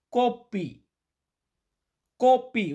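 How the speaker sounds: কোপি said with a hard k and a p, not "coffee"; Malay kopi. Shown as a demonstration. Teacher to learners, modelling the Malay word কোপি. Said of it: "উচ্চারণটা এমন হয় কোপি".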